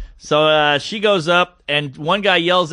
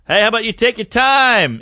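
high, imitated sarcastic jab; raised-pitch mock put-down; cutting him down; 7 semitones higher, 4 dB louder than usual. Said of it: "She's just cutting the guy down".

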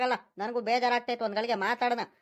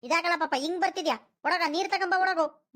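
high-pitched, impatient order; exasperated urging; 5 semitones higher than usual. Acted. Thirsty grandfather to grandchild, exasperated urging. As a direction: send the child off impatiently.

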